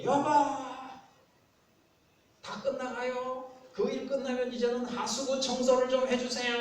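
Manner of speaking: cup your hands and yell to a spouse; loud, high-pitched shouted request; calling out loudly. Acted. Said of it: "손을 모아가지고 있는 대로 해서".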